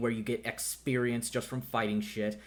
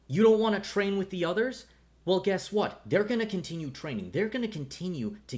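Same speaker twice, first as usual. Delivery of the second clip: higher, louder scolding; angry rebuke; 8 semitones higher, 3 dB louder than usual. Acted. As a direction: snap at the stubborn student. Angry mentor confronts student.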